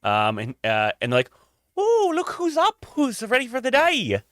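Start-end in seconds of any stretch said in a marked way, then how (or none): 1.8-4.2 high, sing-song judgy greeting; judgy morning person. Acted. Mary greeting late risers at the inn, high and judgy. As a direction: chirp it high, with judgment underneath. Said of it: "kind of a little judgy".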